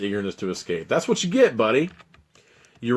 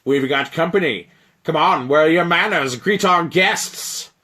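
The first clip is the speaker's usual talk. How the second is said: loud, high put-on giant voice, slowing at the end; a giant showing off to his dragon pet; booming frost giant; 8 semitones higher, 6 dB louder than usual. Frost giant booming at his dragon. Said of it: "booms the frost giant".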